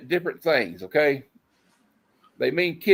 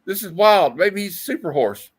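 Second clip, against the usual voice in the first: high, breathy swooning lady; swooning woman; 5 semitones higher than usual. Acted. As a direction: swoon over him. Reading swooning woman's lines.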